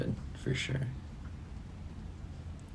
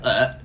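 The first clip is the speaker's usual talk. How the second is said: fake gagging; 3 semitones higher than usual. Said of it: "like, fake gagging".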